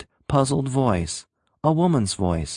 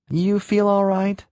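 put-on higher, wary young voice; uneasy; 10 semitones higher than usual. A narrator's reading. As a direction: ask it warily, a little alarmed. Youth uneasy.

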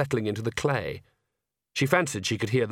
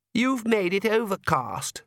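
put-on sulky girl, slow and higher; sullen; 9 semitones higher, slower than usual. A narrator's reading. Lacrimosa sulking at her father, slow and sullen. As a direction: drag the words out grudgingly. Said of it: "said Lacrimosa sullenly".

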